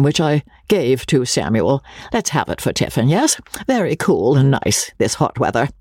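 a hint of a fussy gentleman; offhand, flustered Joe. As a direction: chatter on, playing down the gift. Joe's offhand chatter voiced.

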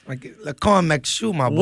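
playful mock Cajun accent; lightly hammed-up Cajun voice; put-on Cajun voice. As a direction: repeat it in a dubious Cajun accent. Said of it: "it's my Cajun voice".

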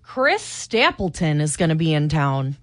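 a mock Minnesota twang on the name; playful Minnesota accent, a touch exaggerated. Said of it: "my best Minnesota accent".

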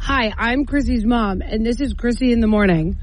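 slow, careful prompting; slow demo. Shown as a demonstration. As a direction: spell the line out slowly. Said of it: "Tell me what to say".

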